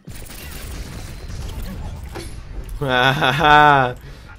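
open-mouthed gamer's laugh. Real, not acted. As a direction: burst out laughing. Laughs while playing.

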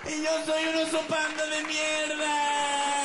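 high, loud, whiny panda pleading; scared panda voice. Acted. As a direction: beg for help like a terrified girly panda. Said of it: "por qué hablas como mi novia". (oso panda asustado con voz aguda de novia)

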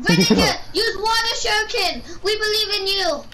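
hammed-up trainer shouting commands; anime trainer. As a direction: call out like a Pokémon trainer.

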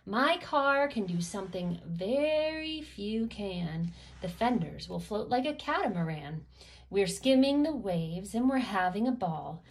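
put-on lively read-aloud to a child; storybook reading. Reading a rhyming car book to kids, lively storybook voice. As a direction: bounce through the rhymes like a bedtime book.

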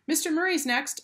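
high-pitched mother's call. A narrator's reading. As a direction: call out to claim the turn. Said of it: "a mother called".

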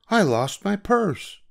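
high, slow lament; a hint of distress over purse; mildly upset aunt.

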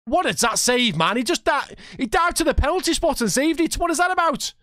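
can't believe that save; disbelief. Real, not acted. Gamer stunned by the keeper's save.

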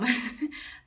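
short amused chuckle; real laugh slipping out; brief laugh. Real, not acted. Storyteller amused by own tale mid-sentence, brief laughing.

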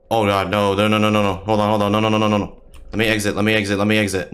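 being chased. Real, not acted. Fleeing monster, frantic repeated no.

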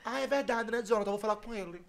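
softly imitated voice message; mock-casual, hushed chat into the phone; imitating her recording. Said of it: "ela fez assim, ó".

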